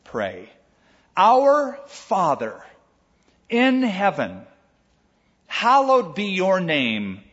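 solemn recited prayer; scripture prayer reading. Acted. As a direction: pray it aloud with measured reverence. Reads the Lord's Prayer.

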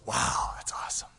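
hushed, breathy wonder; whispered wow; awed whisper. Acted. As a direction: whisper it in awe. Awed aside after God spoke.

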